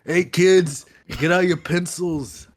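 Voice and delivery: badly faked Hispanic teacher voice; Hispanic accent. Teacher telling kids to get ready, badly faked Hispanic accent. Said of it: "I don't do a good Hispanic accent".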